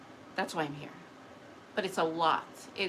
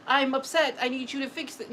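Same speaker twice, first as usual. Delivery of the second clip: raised, insistent mock demand; voicing upset energy; 4 semitones higher than usual. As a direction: demand it, lightly playing upset. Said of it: "like it's talking to me".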